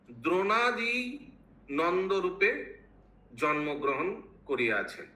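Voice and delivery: deliberate scripture reading, phrase by phrase; reading translation aloud. Acted. Teacher reading the Bengali translation to devotees, formal recitation. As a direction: read formally, pausing after each phrase.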